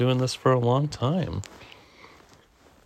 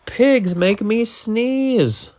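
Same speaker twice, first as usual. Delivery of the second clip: very slow, higher declaration; slow lament; 8 semitones higher, 3 dB louder, much slower than usual. Acted. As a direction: draw each word out mournfully. Gerald reflects mournfully.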